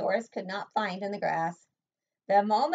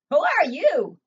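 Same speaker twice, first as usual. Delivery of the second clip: higher, louder startled cry; squeal; 7 semitones higher, 9 dB louder than usual. Acted. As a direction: caught off guard and scared. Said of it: "Doris squealed".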